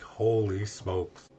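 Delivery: slow, drawn-out retold amazement; stunned by the price. Teller recalling his reaction to the quoted cost, stunned. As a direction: stretch the words out in mild awe.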